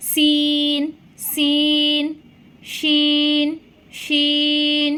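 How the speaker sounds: সিন light and crisp, then শিন hushed and firm; Arabic sin and shin. Shown as a demonstration. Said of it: "এই সিনটা আপনারা একটু পাতলা করে এবং শক্ত করে পড়বেন".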